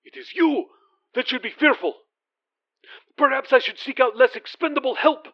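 a prince threatening his servant, coldly angry; menacing prince. Acted. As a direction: let the threat land without shouting. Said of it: "The voice was no longer whispering".

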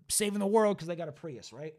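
words around a sip of cognac; while sipping a drink. Real, not acted. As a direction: talk between sips of a drink. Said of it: "Sorry, I'm drinking a little cognac".

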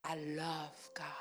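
whispered, slow and soft; tender whispered confession. Real, not acted. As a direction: breathe it like a secret. Pastor whispers her love for God.

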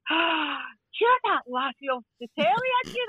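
mock-amazed recognition, swooping upward; excited recognition. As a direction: imitate a starstruck stranger. Imitates woman recognising her.

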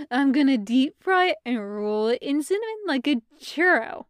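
lightly voiced doting weirdness; Stevie's weird baby talk. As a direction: relish it, half cooing, half deadpan.

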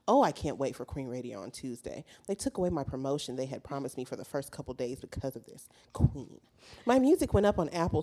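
reading her tweets in a light put-on rapper voice; lightly voiced diva rant; mock rapper voice. Reading a rapper's tweets to the hosts in a mild mock voice. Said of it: "This voice is so perfect".

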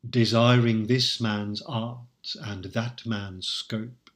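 slow, measured verse reading; poem recital. Shown as a demonstration. Lecturer quoting the sonnet aloud, slow recital. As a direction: savour each word of the verse.

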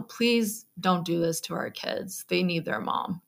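soft, understated pleading; retold plea. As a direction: quietly retell a desperate plea. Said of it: "with everything I had, I just said".

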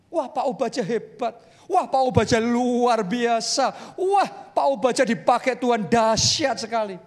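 gushing admiring praise, building to a shout; mock praise. Churchgoer gushing over Pak Obadja, building to a shout. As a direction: rave like an impressed admirer.

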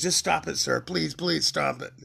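high, drawn-out mock begging; pleading principal. Principal begging dad to stop, high mock pleading. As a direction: imitate a helpless principal pleading, slowing on the pleases. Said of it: "Like that".

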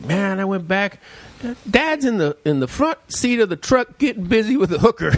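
quoting the brother through laughter; words bubbling with laughter; laughing while quoting. Retold or imitated. Brother reporting back to the family, laughing. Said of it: "He says".

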